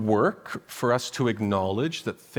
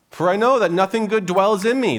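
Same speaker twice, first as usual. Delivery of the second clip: emphatic scripture reading; 8 semitones higher, 7 dB louder than usual. Acted. Preacher reading Paul with force.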